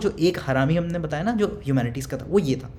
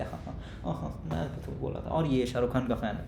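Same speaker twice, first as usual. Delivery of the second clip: laughing; 4 semitones lower, 9 dB quieter than usual. Retold or imitated. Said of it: "आ रहे हैं हंसते हंसते".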